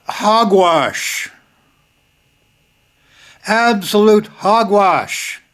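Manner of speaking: high, indignant cry of hogwash; outraged, slow "Absolute hogwash"; scornful dismissal. Real, not acted. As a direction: scoff it away, disgusted. Scoffing at a hockey player's excuse.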